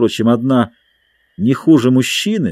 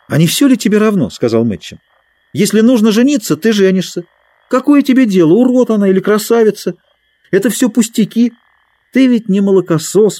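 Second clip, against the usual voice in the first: heated retort; 10 semitones higher, 4 dB louder, faster than usual. Acted. Matcham scolds Dick.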